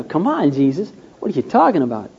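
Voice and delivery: a touch of sarcastic Peter, mildly voiced; lightly mock him as if he talks nonsense. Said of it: "It was very sarcastic kind of".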